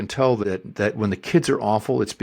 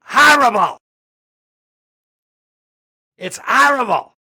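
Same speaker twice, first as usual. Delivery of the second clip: put-on loud, high-pitched shrieking child tantrum. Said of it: "this is what I remember especially".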